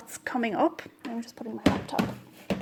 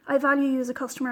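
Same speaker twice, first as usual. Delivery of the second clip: rattled off fast, the dyer's quoted reply; quoting the dyer's reply; faster than usual. Retold or imitated. Reading out the dyer's message to viewers, rushed and fast. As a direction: reel off the customer line quickly, like the dyer did. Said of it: "I often fight with my winder".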